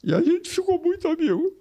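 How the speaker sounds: tearful, voice pushed up high; really fighting back crying; choking up. Real, not acted. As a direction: squeeze the words out through tears. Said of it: "Eu vou chorar aqui".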